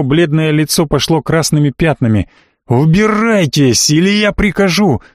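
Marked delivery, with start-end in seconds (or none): 2.7-5.0 медленно, затем выше на конце; выгнать из дома с гневом; гневный приказ. A narrator's reading. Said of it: "закричал барон". (барон гневно выгоняет гостя, медленно)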